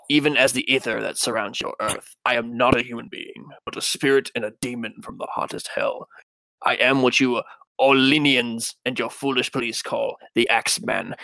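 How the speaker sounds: lightly spooky, measured letter reading. Acted. Podcaster reading the Axeman's letter aloud, spooky voice. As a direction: read it as a mildly eerie demon killer. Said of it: "read this in a spooky voice".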